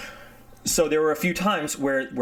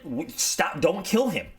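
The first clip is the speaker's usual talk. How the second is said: urgent order; 6 semitones higher, slower than usual. Retold or imitated. Headquarters orders halt to execution.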